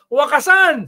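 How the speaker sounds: loud, high protest cry; imitated rally shout. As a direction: shout the slogan to a crowd, mimicking the leader. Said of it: "Sisigaw siya". (ginagayang malakas na sigaw ng lider)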